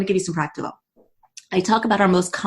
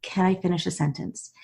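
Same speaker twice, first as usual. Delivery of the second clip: softer, even and restrained; calm, controlled; 7 dB quieter than usual. Retold or imitated. Daughter to defensive doctor, calmly controlled and soft. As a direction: keep the lid on your frustration. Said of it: "I very calmly said".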